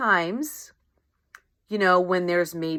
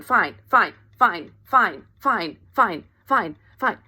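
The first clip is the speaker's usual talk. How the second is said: louder string of "fine"; rapid brush-off; 5 dB louder than usual. Retold or imitated. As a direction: keep swatting the ball away. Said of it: "if you can imagine every time".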